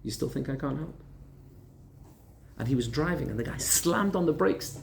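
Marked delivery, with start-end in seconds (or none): 0.0-1.0 calmly. Retold or imitated. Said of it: "And extremely calmly".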